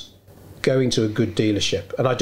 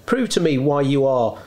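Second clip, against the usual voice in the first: challenging; 3 semitones higher than usual. Retold or imitated. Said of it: "do almost have the attitude".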